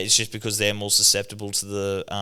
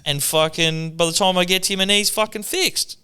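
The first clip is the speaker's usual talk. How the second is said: Dad's rant; 9 semitones higher than usual. Retold or imitated. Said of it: "He said".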